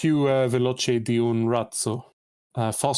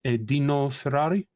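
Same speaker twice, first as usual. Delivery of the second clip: Italian accent. Shown as a demonstration. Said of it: "The Italian accent is".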